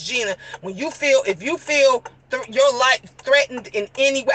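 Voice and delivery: low, measured manager's voice; imitated corporate manager. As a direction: check on an employee, low and composed. Retells the corporate manager's concern.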